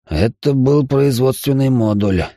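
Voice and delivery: slow, mildly glum answer; gloomy reply. Acted. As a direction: answer slowly with a touch of gloom. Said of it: "хмуро ответил я". (слегка хмурый, медленный ответ)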